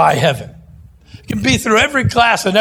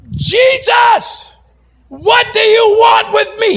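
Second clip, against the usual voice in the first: high, loud possessed scream; demon shriek; 5 dB louder, slower than usual. Acted. Possessed man yells at Jesus.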